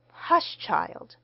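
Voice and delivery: hushed, soft scolding; soft hushing. A narrator's reading. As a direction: shush them gently. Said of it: "protested a duet of feminine voices softly".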